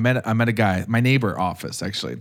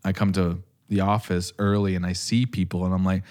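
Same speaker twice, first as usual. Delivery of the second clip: ordinary talk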